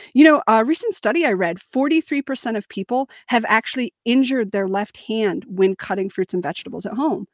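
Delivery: assured, matter-of-fact expert tone; confident authority voice. Shown as a demonstration. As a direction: state it like an expert. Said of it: "I said it very confidently because I said it fast".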